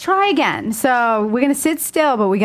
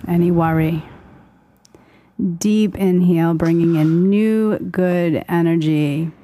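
slow, calm meditation voice; guided meditation; 3 semitones lower, slower than usual. Acted. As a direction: guide them into calm, slowly. Leads a breathing meditation.

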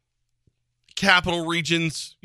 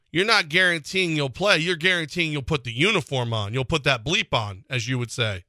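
ordinary talk

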